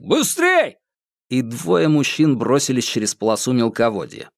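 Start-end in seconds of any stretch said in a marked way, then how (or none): 0.0-0.8 shouting. Acted. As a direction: hurry the others along. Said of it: "крикнул охранник".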